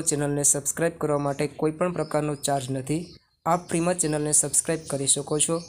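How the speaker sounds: a fast, light outro ad read; quick subscribe appeal. Acted. Teacher asking students to subscribe, fast promo read. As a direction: rattle off the channel plug fast.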